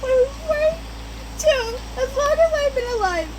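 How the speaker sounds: high, loud furious hiss-shout; a cat exploding in anger; angry high outburst. A narrator's reading. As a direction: spit it out high and fast, enraged. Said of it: "I hissed".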